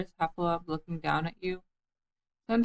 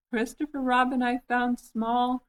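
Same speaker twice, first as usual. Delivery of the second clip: higher, slow proud announcement; excited cry; 6 semitones higher than usual. A narrator's reading. Piglet telling Christopher Robin he found Small, excited cry. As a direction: call out the good news eagerly. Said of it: "cried Piglet".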